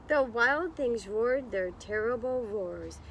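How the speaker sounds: put-on slow, lilting read-aloud for children; story narration. A narrator's reading. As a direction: read it like storytime, drawing out the words. Reading picture book to class.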